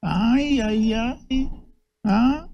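mock Spanish accent. Podcast host mocking a Fox News anchor, in a hammed-up Spanish accent. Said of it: "We want you to speak like this now".

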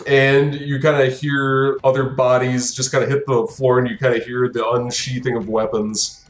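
ordinary delivery

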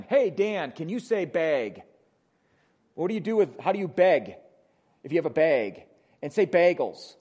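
mock teasing in a Wisconsin accent; imitated Wisconsin accent. People teasing the pastor about his speech, imitated Wisconsin accent. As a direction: lean lightly on Wisconsin vowels in bag and bagels. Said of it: "with my Wisconsin accent".

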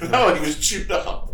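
high, drawn-out mock cry; hammed-up cry with a laugh after; mock scream. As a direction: quote the screaming character, slow and high. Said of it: "he's, like, screaming".

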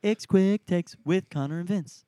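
loud, high announcer call; segment announcer. Pretend. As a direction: hype up the segment title.

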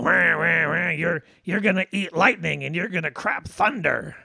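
a hint of a gruff old trainer barking; lightly voiced Mickey firing up his fighter; Mickey impression. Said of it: "he's still all".

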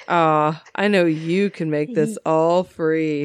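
low, slow sleazy purr; hammed-up seductive customer; sexy voice. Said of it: "he's still trying to sound sexy".

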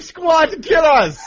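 angry German. Acted. Host ranting at the obstacles as an angry German. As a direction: rant it like a furious German. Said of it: "really angry German".

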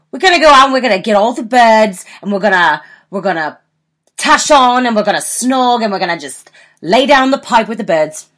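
lightly put-on Geordie Shore lad voice; hammed-up Geordie bragging; a hint of Geordie; Geordie accent. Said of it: "do your Geordie Shore".

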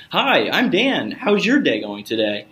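weak typical caller tone. Shown as a demonstration. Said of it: "tonality that's maybe a little bit different".

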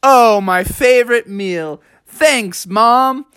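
lightly acted delight; delighted frog. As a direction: thank mom for a favourite treat. Frog delighted by his dinner.

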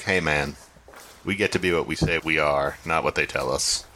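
low, gently reassuring character voice; weirdly nice. Acted. Coming up beside an upset companion, weirdly nice and low. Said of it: "in a weirdly, like, nice for Reggie kind of way".

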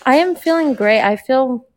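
talking with a retainer in; slightly lisped, retainer in mouth; wearing a retainer. Real, not acted. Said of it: "I have my retainer in".

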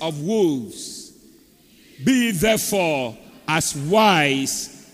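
slow, measured scripture reading. Acted. Preacher leading the church in reading aloud together, slow scripture reading. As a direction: read out deliberately in spaced phrases.

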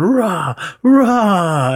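mock growl. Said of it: "Kreese pops out behind him going".

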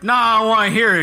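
mock dismissive interruption. Acts out interrupting a monologue.

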